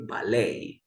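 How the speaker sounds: ballet with a silent T; French-derived pronunciation. Shown as a demonstration. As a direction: model ballet, ending on a long lay. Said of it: "which is a French word".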